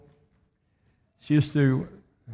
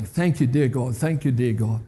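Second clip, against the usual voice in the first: wife's gentle thanks; 4 semitones lower than usual. Retold or imitated. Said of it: "That's her saying".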